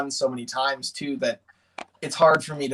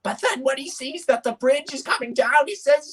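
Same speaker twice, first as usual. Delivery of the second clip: rising pitch; 10 semitones higher than usual. Shown as a demonstration. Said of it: "his voice starts to go higher".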